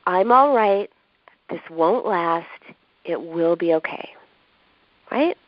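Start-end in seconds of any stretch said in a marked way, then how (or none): 0.1-4.1 comforting tone. Shown as a demonstration. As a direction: say it like a verbal hug. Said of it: "In a comforting tone".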